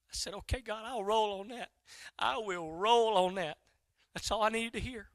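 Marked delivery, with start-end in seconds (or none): 2.2-3.6 slow, deliberate commitment; measured, settled acceptance; resolute. Retold or imitated. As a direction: say "I will roll on that" drawn out and firm. Accepting again, slowly and firmly.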